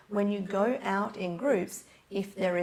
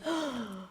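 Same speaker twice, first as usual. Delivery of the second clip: imitated gasp of amazement; amazed gasp; 4 semitones higher than usual. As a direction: gasp like an astonished newcomer. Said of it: "she's like".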